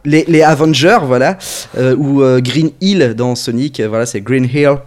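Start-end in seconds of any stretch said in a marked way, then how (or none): 0.0-1.0 "Avengers" with an English accent, louder. Shown as a demonstration. Echoing co-host's example of Québec dubbing, English accent. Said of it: "vraiment avec un accent anglais". 4.2-4.8 "Green Hill" in a true English accent. Shown as a demonstration. Showing how Québec dubbers say it, English accent. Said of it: "Ils font vraiment avec l'accent".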